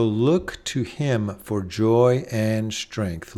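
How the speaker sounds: slow, deliberate, each word weighted; a preacher savoring the line slowly; slow emphatic refrain. Shown as a demonstration. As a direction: lay out "look to him for joy and strength" word by word. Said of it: "repeated refrain, slow then plain".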